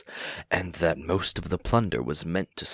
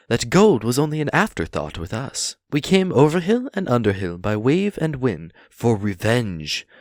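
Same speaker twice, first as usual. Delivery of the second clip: higher and louder, bravely boasting; defiant hobbit; 3 semitones higher, 4 dB louder than usual. Acted. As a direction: puff himself up before the dragon. Bilbo boasts of revenge.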